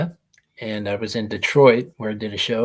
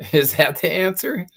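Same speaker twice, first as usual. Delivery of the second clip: laughing nervous question; 7 semitones higher than usual. Retold or imitated. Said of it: "I'm going".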